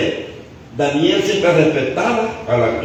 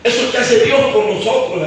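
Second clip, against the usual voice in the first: raised, higher preaching voice; 8 semitones higher than usual. Real, not acted. Preacher urges the brethren to value God, preaching. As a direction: exhort the congregation.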